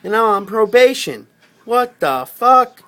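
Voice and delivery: building from alarmed to frantic; retold panic. Retelling his panic pinned under cops, climbing to frantic.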